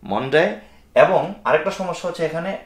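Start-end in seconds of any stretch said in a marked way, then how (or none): 0.1-0.4 "মানডে" with a vowel halfway between MA and MO. Shown as a demonstration. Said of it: "দুইটার মাঝামাঝি". ("মানডে"-র প্রথম স্বর আ আর ও-র মাঝামাঝি)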